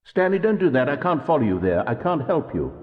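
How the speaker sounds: high, loud desperate plea; desperate pleading. Acted. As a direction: beg him to come back. Narrator begs Stanley to return.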